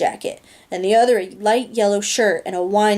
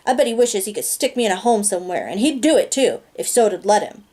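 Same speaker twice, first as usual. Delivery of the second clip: bitter outburst. Acted. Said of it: "I burst out bitterly".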